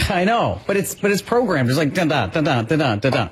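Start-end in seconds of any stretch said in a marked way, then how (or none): 1.9-3.3 rhythmic "dun-dun" sound effect; imitated automatic tapping. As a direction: mimic a programmed action in repeated dun-duns. Mimics automatic, programmed emoji tapping.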